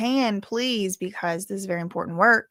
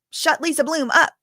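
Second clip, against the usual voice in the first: mock demand; 7 semitones higher than usual. Retelling the lawyers' courtroom request.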